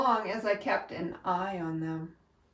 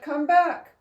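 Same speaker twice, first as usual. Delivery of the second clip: hollering; 7 semitones higher than usual. A narrator's reading. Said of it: "they hollered".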